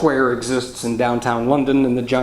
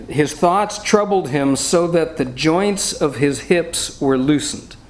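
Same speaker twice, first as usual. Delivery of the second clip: scripture reading; 3 semitones higher, slower than usual. Shown as a demonstration. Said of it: "the polite King James English".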